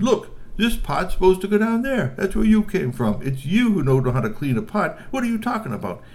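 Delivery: high, loud, triumphant troll voice; loud troll rebuttal. Acted. Strongbones showing whose pot it really is, loud and high. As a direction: point it out and win the argument. Strongbones points out real owner.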